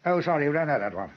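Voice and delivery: usual speaking voice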